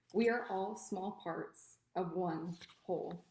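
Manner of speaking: measured, deliberate poem recital; poetry reading. Acted. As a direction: read it as verse, pausing after each phrase. Reads own poem aloud.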